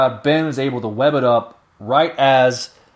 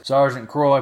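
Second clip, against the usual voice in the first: ordinary talk, nothing marked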